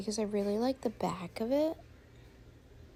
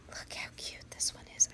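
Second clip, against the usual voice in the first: unvoiced cooing whisper. Real, not acted. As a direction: whisper it without thinking. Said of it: "Why am I whispering".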